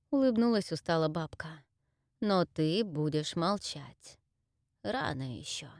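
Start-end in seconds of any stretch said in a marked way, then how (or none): 2.2-5.7 slow, soft commanding crone; a tired old witch's warning; low weary witch. Acted. Weary witch warns Orbran. (усталая ведьма, тихо)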